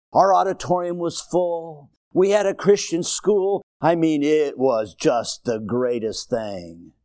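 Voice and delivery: lightly mocked nostalgic old-timer; imitated elderly churchgoer. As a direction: reminisce like an old church member, with a drawn-out start. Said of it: "they'll say something like this".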